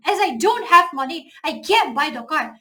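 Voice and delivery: slow example reading. Shown as a demonstration. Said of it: "slow example sentence".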